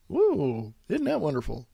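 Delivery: mock-impressed, soft sarcastic cheer; dry sarcasm, voice kept down. Real, not acted. Host scoffing at a tax-avoidance headline, sarcastic. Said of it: "Hear the sarcasm".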